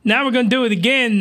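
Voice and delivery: lightly voiced sneering captain; mock smug villain. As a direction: rattle it off like a gloating healer. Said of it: "and he's like".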